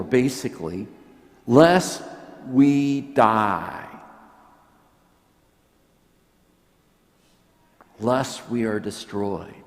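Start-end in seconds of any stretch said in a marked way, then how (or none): 1.5-9.5 a mild fearful cry that fades to a hush; frightened people. Retold or imitated. Hebrews fearing death before God, mild fear fading. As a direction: start with a small cry, then sink. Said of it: "That demon voice coming through the Hebrews".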